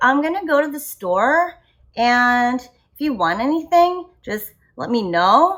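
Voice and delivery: uptalk, every phrase end rising like questions. Imitating the unsure way they used to talk: rising at every phrase end. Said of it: "it sounds like I'm asking a question with every single statement".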